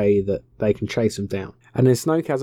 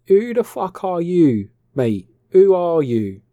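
mock shouted demand; 7 semitones higher, 6 dB louder, slower than usual. Luke demanding who Rey is.

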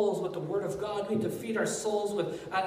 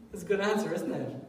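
ordinary talk

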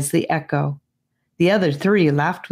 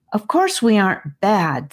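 frustrated; 4 semitones higher than usual. Acted. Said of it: "in her most frustrated voice".

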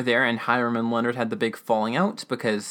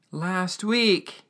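higher voice falling at the end; imitated sorrowful statement, falling tune; emotional old man; 7 semitones higher than usual. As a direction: break bad news as the old man. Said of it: "things get super emotional".

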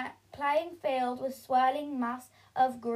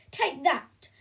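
1 snarl; 3 semitones higher, 5 dB louder than usual. Acted. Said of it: "snarled Belinda".

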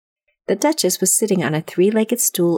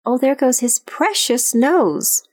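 terrified cry; 6 semitones higher, slower than usual. A narrator's reading. Alice in agony of terror.

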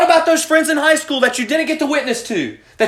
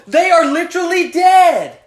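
emphatic shout; 4 semitones higher than usual. Real, not acted. Preacher hammering the point.

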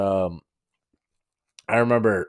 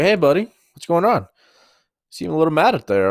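higher-pitched friendly check-in; friendly boss; 7 semitones higher, 3 dB louder, faster than usual. Retold or imitated. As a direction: imitate a boss chummily checking in. Boss checks on upset worker.

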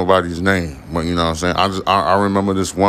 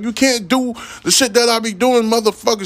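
high-pitched mock girlfriend voice; imitating her. Mocking his angry ex-girlfriend in a much higher voice. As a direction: voice her, much higher than your own. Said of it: "She was like".

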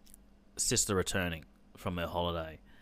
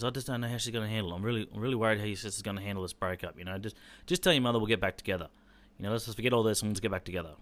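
antsy dad; 2 semitones higher, faster than usual. Retold or imitated. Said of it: "he just sounds a bit antsy".

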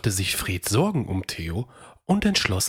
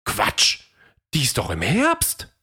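higher, lively dino voice debating with himself; Theo the dinosaur; 6 semitones higher than usual. A narrator's reading. Theo wonders what the dust cloud is, lively. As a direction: guess and answer your own questions.

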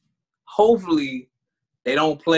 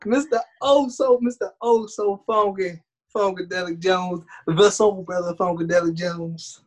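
hype man intro; 3 semitones higher than usual. Pretend. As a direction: roll out the title like an emcee. Hyped self-introduction with title build.

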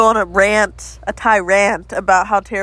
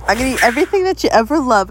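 same threat, pushed louder and faster; mock menace, raised up a notch; 3 semitones higher, 4 dB louder, faster than usual. Threatening over stolen lollipop.

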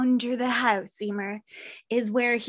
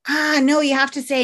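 louder insistent villain line; the friend louder and menacing, stopping her leaving; 3 semitones higher, 6 dB louder than usual. Retold or imitated. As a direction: call her back loudly with threat. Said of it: "he's like".

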